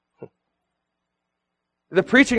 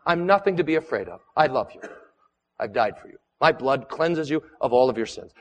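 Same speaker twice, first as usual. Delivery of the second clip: Jesus's words dropped softer and lower; tender reassurance; 4 semitones lower, 5 dB quieter than usual. Acted. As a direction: speak it softly, as Jesus calming a frightened believer. Jesus voiced speaking to the fearful.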